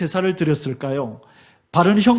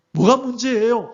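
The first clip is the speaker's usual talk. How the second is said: higher, mock-indignant retort; angry retort; 6 semitones higher than usual. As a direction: toss it back as a mild protest. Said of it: "하고 화가 난 거예요". (살짝 화난 듯 따지는 말투)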